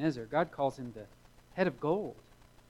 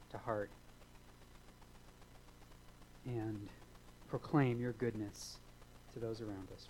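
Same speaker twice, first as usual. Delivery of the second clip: measured prayer, pausing between phrases; congregational prayer; 2 semitones lower than usual. Real, not acted. Pastor asking Father for courage, measured closing prayer.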